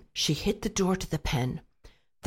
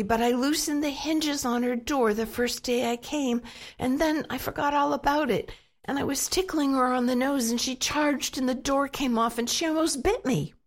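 put-on scared boy; 7 semitones higher than usual. Scared boy blurts excuses.

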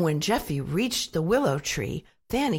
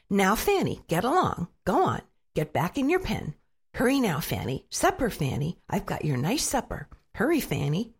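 imitating Missus Piggle-Wiggle. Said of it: "in an exact imitation of Missus Pickles Wiggles' voice".

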